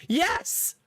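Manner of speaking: very high, squealing delight; a toddler's high cheer for timeout; gleeful toddler. Pretend. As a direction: squeal like a toddler who loves it. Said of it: "Gideon answers".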